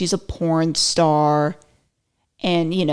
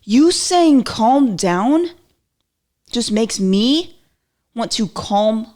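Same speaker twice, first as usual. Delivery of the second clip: louder, higher, slow indignant rant; hammed-up outrage at being told to calm down; mock irritated outburst; 3 semitones higher, 3 dB louder, slower than usual. Answering someone who says calm down, mock angry. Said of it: "And you're like".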